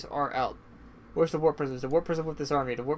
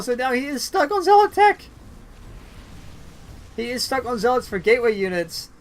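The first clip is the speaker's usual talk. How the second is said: louder, higher, rapid hype call; excited play-by-play; 4 semitones higher, 4 dB louder than usual. Real, not acted. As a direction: ramp up the caster energy. Base race heats up.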